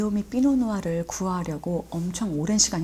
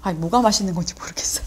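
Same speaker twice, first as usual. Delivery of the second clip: talking while chewing; 4 dB louder than usual. Real, not acted. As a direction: hand over mouth. Seen 1: Ate at -4, hand covers mouth 0.4–1.3 while talking.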